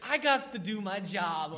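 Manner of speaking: 1930s beat cop. Pretend. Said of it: "in character as Jimmy".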